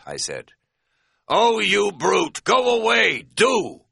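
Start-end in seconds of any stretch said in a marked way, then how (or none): 1.3-3.9 high, loud, prissy mock shout; jeering high-pitched impression of a timid shouter; merciless mocking imitation. A narrator's reading. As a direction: mimic a feeble scolding, drawn out high. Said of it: "Katz shouted in merciless imitation".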